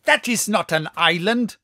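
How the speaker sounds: loud, doubting objection; skeptical cry. A narrator's reading. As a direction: cry out in disbelief. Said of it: "I cried skeptically".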